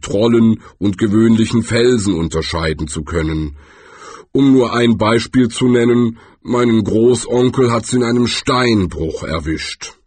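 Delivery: lautere, bedächtige Trollstimme; Quarz der Troll. Acted. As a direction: ein Troll erklärt sein Schicksal. Quarz explains. (lauter, ernster Troll)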